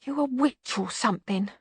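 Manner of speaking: mild high moan; a touch of whimpering. A narrator's reading. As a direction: moan it softly, like a beaten bogeyman. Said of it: "moaned the bogeyman".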